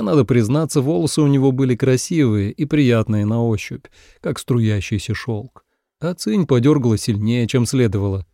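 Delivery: ordinary delivery, nothing marked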